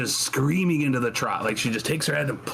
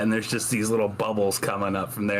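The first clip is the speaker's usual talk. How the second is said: normal talking voice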